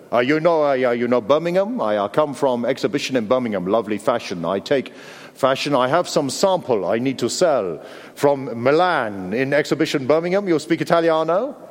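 halting salesman patter in fake Italian English; terrible Italian accent. Supposed Italian designer selling samples in a car park, bad Italian accent. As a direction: imitate a dodgy Italian-accented sales pitch. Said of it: "That is a terrible Italian accent".

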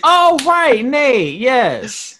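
loud, high aha moment; sudden recognition. Real, not acted. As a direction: it just clicked. Sudden recall of the name.

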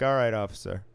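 mock-deferential, lightly patronizing; condescending. Worker answering a self-declared state trooper, condescending. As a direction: humour him with a hint of condescension. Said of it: "I'm just very condescending the whole time".

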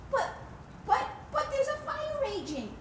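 urgent refrain. Real, not acted. Preacher to the ladies, urgent refrain. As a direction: hit the refrain hard.

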